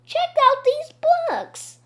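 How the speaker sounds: high, loud excited call; shouting. A narrator's reading. Boy showing classmates the dropped books, shouting. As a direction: yell to show off a find. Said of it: "Ryan shouted".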